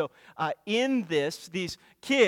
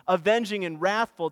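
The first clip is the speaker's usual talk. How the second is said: louder, driving the words home; emphatic; 4 dB louder than usual. Acted. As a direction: proclaim it with force. Preacher repeats Nahum's words emphatically.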